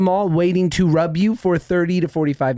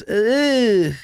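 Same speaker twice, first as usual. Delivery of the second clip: drawn-out imitated "ugh" of distaste; mock disgusted groan; 3 semitones higher than usual. Imitating the masseuse grabbing his fat, mock disgusted groan. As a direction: groan as if touching something unpleasant. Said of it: "she goes".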